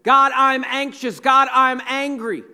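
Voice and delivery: firm, emphatic admission to God; praying out loud. Acted. Preacher models admitting feelings to God, praying out loud. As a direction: declare it out loud, evenly pitched and forceful. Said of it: "admitting out loud to God in prayer".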